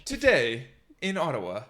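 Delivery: measured newsreader melody; imitated generic Canadian news read; news reporter. Shown as a demonstration. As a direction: open the bulletin like a news anchor. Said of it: "generic news reporter".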